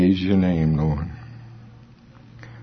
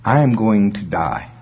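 slow paraphrase; slower than usual. Acted. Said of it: "say it in a little different English".

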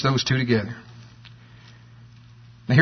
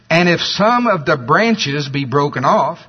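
slow reading, weight on "branches"; deliberate verse with "branches" marked out; stress on branches; slower than usual. Shown as a demonstration. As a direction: lean on "branches" while reading slowly. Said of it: "gonna emphasize the word branch".

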